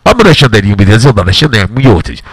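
pretending to speak Russian; fake Russian. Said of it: "I can even speak Russian, but it's fake".

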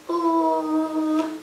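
long, sustained L sound; letter sound. Shown as a demonstration. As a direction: hold the sound of L out steadily. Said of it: "The sound that L says is".

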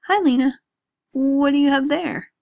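loud friendly hail; cheerful greeting. Acted. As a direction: call out to her warmly. Brother greets Lena cheerfully in street.

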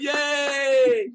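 high cheering yay; a far-off shout of joy; imitating Kelly cheering from the next room; mock cheer. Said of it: "Kelly in the other room going".

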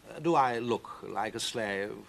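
slow, unhurried cat voice; cat Victor. Acted. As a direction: drawl it with lazy amusement.

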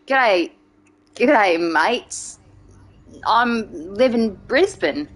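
hammed-up Aussie greeting; Aussie accent. Streamer greeting mates as a Brisbane local, Australian accent. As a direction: try passing as Australian. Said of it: "could I get away with it if I went to Australia".

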